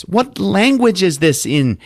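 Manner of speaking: high, slow, incredulous question; mock bewilderment, pitched well up; baffled question. Annie handed a strange paper, baffled and high.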